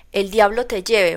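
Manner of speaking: enraged carter cursing the horse, shouting; blind rage. Acted. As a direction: spit the curse at the horse. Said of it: "vociferea mi Colca, ciego de ira".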